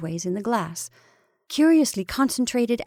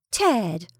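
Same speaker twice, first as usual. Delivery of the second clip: high, loud cry of protest; 7 semitones higher, 4 dB louder, much slower than usual. A narrator's reading. Wife denying she knows the sender, protesting cry. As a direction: leap up high on the denial. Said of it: "she cried".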